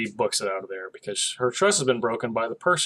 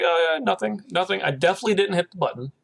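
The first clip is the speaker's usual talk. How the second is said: nervous denial; 6 semitones higher, faster than usual. Retold or imitated. Frank nervously denies pressing button.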